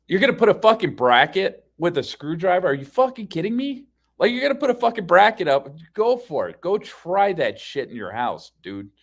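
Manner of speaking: loud, heated dare; incredulous rant. Retold or imitated. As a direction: scoff at the idea, voice shooting up. Retelling his mocking argument.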